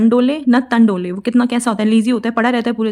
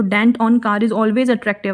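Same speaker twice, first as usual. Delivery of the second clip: slow, word by word; slow dictation pace; much slower than usual. Shown as a demonstration. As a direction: read it slowly for notes. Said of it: "slow English mnemonic".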